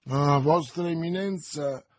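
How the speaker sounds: loud, slow, furious outburst; angry exclamation in a flash of fury; burst of anger. A narrator's reading. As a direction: spit it out in a fit of rage. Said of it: "esclamò Milady in un impeto di collera".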